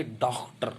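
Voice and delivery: डॉक्टर with open "aw", between aa and o; correct rounded vowel. Shown as a demonstration. Teacher giving the correct form, डॉक्टर with an open rounded "aw". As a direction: say डॉक्टर as English-style "dawk-tar". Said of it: "आ और ओ ध्वनि की मध्यवर्ती ध्वनि".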